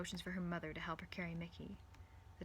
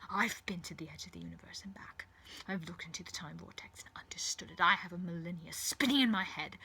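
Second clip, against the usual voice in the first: mild gloating menace; arrogant villainous Doctor. Acted. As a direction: taunt a captive with a touch of menace.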